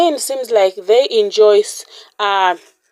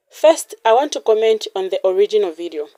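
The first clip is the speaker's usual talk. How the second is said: whisper. Real, not acted. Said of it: "unvoiced whispered aside".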